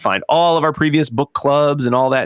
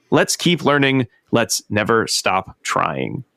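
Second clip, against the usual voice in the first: measured reading of a book passage; reading aloud. Acted. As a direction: read the closing lines with care. Reads the book's last passage aloud.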